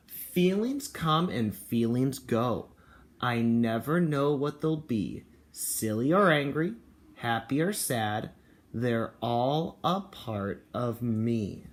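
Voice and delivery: slow, deliberate storybook read; a touch of grumpy storybook voice; reading to children. Acted. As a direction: read it slowly to a kindergarten class. Reads picture book aloud.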